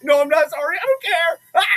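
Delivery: high, loud I don't care; loud high defiant outburst; defiant shout. Real, not acted. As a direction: yell it out defiantly.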